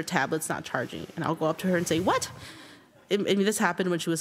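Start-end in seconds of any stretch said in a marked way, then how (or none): 2.0-2.3 high rising questioning "what?"; mock incredulous parent. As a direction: retell it as a sharply rising question. Parent confronting crying daughter.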